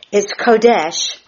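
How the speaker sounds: Kodesh, said slowly: KO-desh, stress on the first syllable; spelled-out Hebrew word. Shown as a demonstration. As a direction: carefully sound out Kodesh, stress on KO. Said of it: "emphasis on the K H O hyphen".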